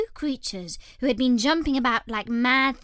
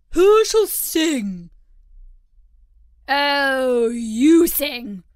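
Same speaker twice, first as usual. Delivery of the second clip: loud calling; 4 semitones higher, 11 dB louder, much slower than usual. A narrator's reading. Creatures briskly settle who sings.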